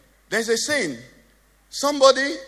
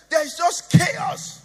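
preacher's shout; 9 semitones higher, slower than usual. Real, not acted. Preacher exclaiming in a sermon.

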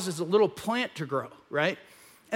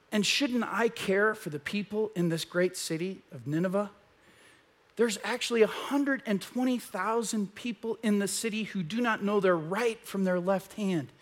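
gentle God; 4 dB quieter than usual. Retold or imitated. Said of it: "And God says to him".

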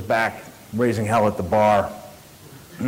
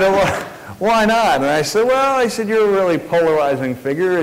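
excited retelling; 8 semitones higher, 5 dB louder than usual. Retold or imitated. Heated exchange with Wolfowitz.

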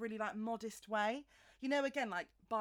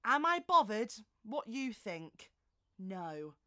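catchphrase quote; 5 dB louder, slower than usual. Retold or imitated. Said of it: "her quotes".

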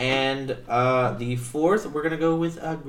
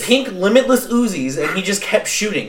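high, loud excited telling; blurting it out, thrilled; 9 semitones higher, 13 dB louder than usual. Real, not acted. Excited about pink Uzis.

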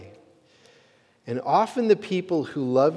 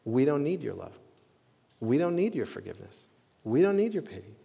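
proud dismissal. Retold or imitated. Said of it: "the pride of humanity says to God".

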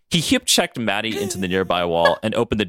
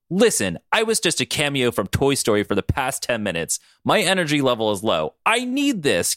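a touch of a raised voice, rising high at the end; mild yell; 4 semitones higher than usual. Acted. Katie defends snatching Ryan's candy bar, mild yell. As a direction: plead for the candy bar, half-yelling. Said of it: "Katie yelled".

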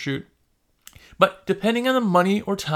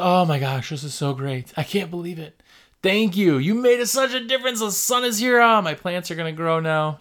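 thrilled homeowner. Retold or imitated. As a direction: play a delighted customer gushing over clean windows. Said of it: "a lot of times they go".

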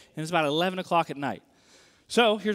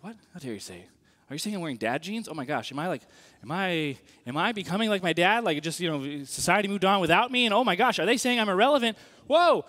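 mock outrage spiralling into panic; acted indignation; 3 dB louder than usual. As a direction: work yourself up from offended disbelief to outcry. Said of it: "I get angry. I'm like".

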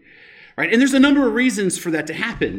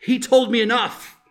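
put-on higher, louder, accusing young hero; Luke's reply; 4 semitones higher, 6 dB louder than usual. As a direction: throw the line back at him in protest. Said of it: "Luke responds with".

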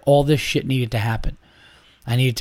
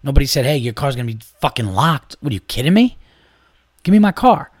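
retold angry rant. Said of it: "I was like".

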